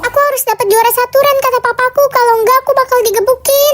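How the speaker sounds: frightened. Acted. Winda telling Ren what her father threatened, fearfully. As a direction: blurt it out in fear of a beating. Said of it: "Kok kamu ketakutan gitu?".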